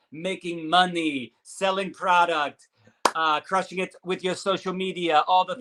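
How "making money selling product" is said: slow mock Russian accent. Host hyping the episode topics, mock Russian accent. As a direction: play up a Russian accent, slowly. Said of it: "that's my Russian accent".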